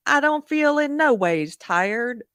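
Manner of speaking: mock a politician's put-on Southern accent, drawn out; imitating put-on accent. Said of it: "she's putting on the accent for the quote".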